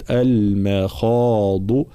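drawn-out "المخاض" with thin m, full kh; light mim, heavy khaa. Shown as a demonstration. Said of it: "ترقيق الميم تفخيم". (ترقيق الميم وتفخيم الخاء في "المخاض")

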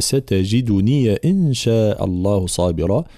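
slow, drawn-out tajwid chanting; Quran recitation. Shown as a demonstration. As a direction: recite it slowly with full tajwid. Quran recitation demo in lesson. (ترتيل بطيء)

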